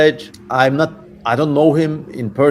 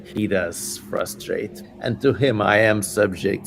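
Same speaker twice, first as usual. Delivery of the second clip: quieter, defeated demon; the demon admits defeat, fading softer; subdued demon voice; 4 dB quieter than usual. Acted. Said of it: "I'm just getting into character now".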